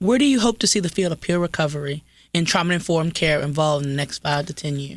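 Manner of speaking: flat read-aloud reading voice, straight off page. Reading an interview question aloud from a sheet: reading voice. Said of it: "When you ask a question, you read it, your voice changes".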